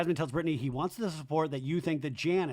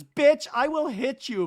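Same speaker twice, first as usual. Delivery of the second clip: high, loud, drawn-out threat; hammed-up drunken menace; mock threat; 10 semitones higher, 7 dB louder, slower than usual. The speaker threatening Brock, high theatrical mock threat.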